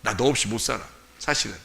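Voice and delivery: low, soft giving-in; quietly concede, voicing a yielding Lord; 순순히 져주는 주님. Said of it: "이렇게 하면은 주님이". (낮고 작게 져주는 척)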